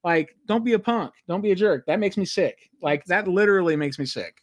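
worked-up rant, winding down toward the end; fired up. Real, not acted. Podcaster ranting at a man who ruins it, fired up. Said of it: "I can see you're very fired up".

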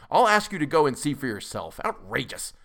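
fume, then spit out the last word; passionately irritated. A narrator's reading. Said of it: "cried Doctor Keene in a perfect passion of irritation".

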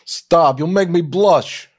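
Dice. Acted. Dominic brushing off praise, in a Dice impression. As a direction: play it up, punching the first word. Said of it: "doing him as Dice earlier".

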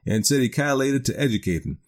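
lightly voiced country yarn-spinner in dialect; a touch of backwoods storyteller, rambling on earnestly; Simon Wheeler. Old acquaintance telling a stranger about Smiley's frog, lightly voiced rustic yarn.

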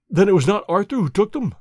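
can it be true; astonished question. Acted. Banker asks Holmes about his son, astonished.

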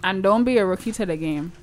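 put-on light Toronto accent; a hint of Toronto slang. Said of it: "That's my Toronto accent".

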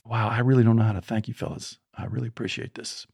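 a soft, sincere thank-you that fades away; grateful father. Retold or imitated. Father quietly thanking the men before leaving. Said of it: "And my dad says".

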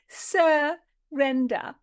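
very slow, drawn-out sneer; mocking. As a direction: stretch the word out in scorn. Repeated mocking word.

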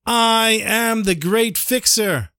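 slow, high calling out, drawn-out words; hammed-up hawker's cry, stretched out; mock street cry. Fixer advertising himself in the streets, mock shouting. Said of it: "I shout at the top of the lungs".

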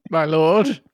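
ordinary talk, nothing marked

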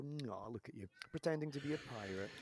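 mock condescending jibe; put-on patronizing tone. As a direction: imitate someone talking down to a performer. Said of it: "in a really patronizing way".

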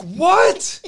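loud, high-pitched disbelieving yell; high yelp. Retold or imitated. Answering the screaming friend on the phone, high loud yelp.

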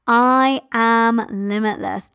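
slow drawn-out bold affirmation; bold lioness roar. Shown as a demonstration. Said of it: "Do that limitless mother lioness roar".

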